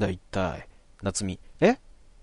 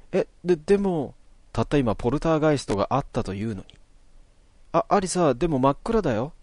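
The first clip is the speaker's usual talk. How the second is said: put-on higher, nervous stammering boy; uneasy Natsumi; 5 semitones higher than usual. Natsumi uneasy after the poltergeist, higher and nervous. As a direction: stammer it out, unsettled.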